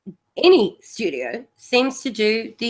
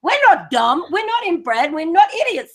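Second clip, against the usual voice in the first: proud indignant rant; 7 semitones higher than usual. Real, not acted. Aussie gamer defending his country to the panel, proud and heated. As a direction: pitch up, insisting on the country's pride.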